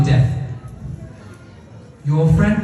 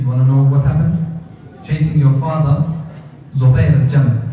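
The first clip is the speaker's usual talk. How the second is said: louder, lower cutting reply; defiant snap back at the taunt; angry retort; 4 semitones lower, 4 dB louder than usual. Acted. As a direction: hit back hard at the mocker.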